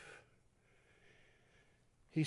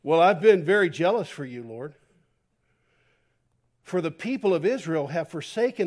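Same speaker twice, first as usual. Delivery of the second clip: louder, pleading complaint to God; Elijah's complaint; 2 semitones higher, 5 dB louder than usual. Acted. Elijah pleading loudly with God about his troubles. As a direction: press the grievance hard. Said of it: "And Elijah responded to God".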